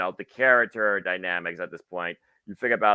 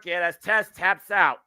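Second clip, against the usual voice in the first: excited commentator; 7 semitones higher than usual. Real, not acted. Live play-by-play.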